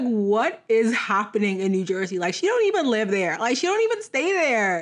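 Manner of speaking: lightly voiced bank officer, rising in disbelief; mock suspicious bank. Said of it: "they're about to be like".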